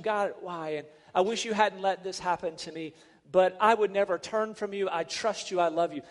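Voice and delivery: gently, like a trusting prayer; tender prayer. Retold or imitated. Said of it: "maintain a tenderness toward God".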